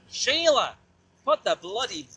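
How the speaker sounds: mock Aussie call, high on the name; terrible Australian accent. Rider calling Sheila for fun, terrible Australian accent. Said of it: "Australian accent".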